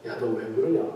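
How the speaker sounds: low-key Chungcheong-style chiding; lightly put-on Chungcheong dialect. Shown as a demonstration. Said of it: "충청도식으로 하면".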